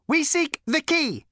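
very high, slow and lifeless; cold repeating robot. A narrator's reading. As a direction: repeat it like a machine.

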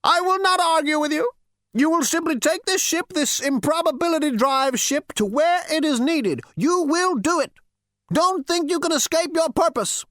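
put-on high, stern old ghost. A narrator's reading. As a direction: lay down the law, no arguing. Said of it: "the old ghost glowered at him".

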